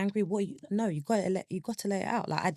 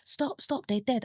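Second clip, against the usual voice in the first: retold shout; 8 semitones higher than usual. Grieving speaker wanting the world to stop, retold shout. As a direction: cry out in protest, short of a full shout. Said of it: "I just wanted to shout to everyone".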